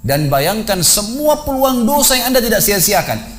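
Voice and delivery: fervent warning. Acted. Preacher listing sins, rising intensity.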